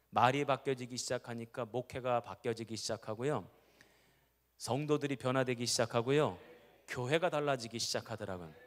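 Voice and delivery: ordinary delivery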